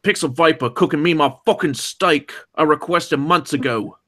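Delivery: lightly hammed Aussie accent; fake Aussie accent. Reading a chat message about steak, fake Aussie accent. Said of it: "that sounded like a fake Aussie accent".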